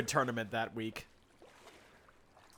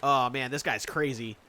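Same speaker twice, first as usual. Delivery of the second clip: Spooky impression; 4 semitones lower than usual. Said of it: "Spooky would be like".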